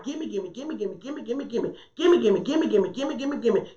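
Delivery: mock a begging child; preacher imitating a child, chanting gimme; whiny child. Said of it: "children are like".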